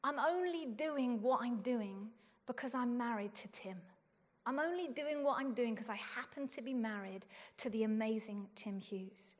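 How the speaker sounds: soft, low self-doubting thought; self-doubting inner voice, soft. Retold or imitated. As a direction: let it sink quietly. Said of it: "I would be tempted to think".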